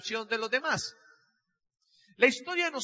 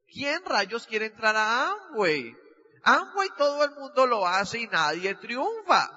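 disgusted scoff. Retold or imitated. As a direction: sneer at the whole scheme. His disgusted inner reaction.

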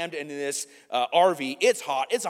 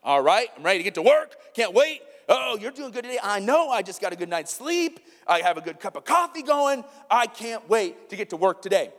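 eager Monday; 4 semitones higher than usual. Retold or imitated. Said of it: "you're like".

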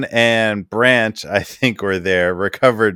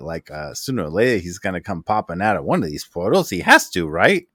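Bartleby voice; 3 semitones higher than usual. Acted. GM's Bartleby apologizing about the lost friend, a bit nervous. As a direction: nervously reassure them he'll turn up. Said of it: "Bartleby sort of, like, interrupts and says".

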